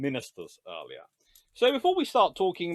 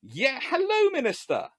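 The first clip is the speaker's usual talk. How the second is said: jaded admiral; 8 semitones higher, 3 dB louder than usual. Retold or imitated.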